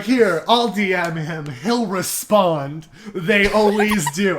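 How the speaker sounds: imitating a smug, confident colleague; slow, drawn-out mock smugness. Host imitating Zoe boasting about booking a guest, smug. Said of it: "but was so smug".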